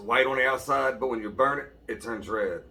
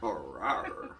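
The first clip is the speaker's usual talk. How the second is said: dinosaur voice; 4 semitones lower, 5 dB quieter than usual. Pretend. Kid repeats the dinosaur roar.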